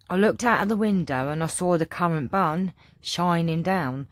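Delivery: lightly put-on Cockney storytelling; a hint of posh Cockney; attempted Cockney accent. Shown as a demonstration. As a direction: read it out in a mild, homemade Cockney. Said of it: "try and do a Cockney accent".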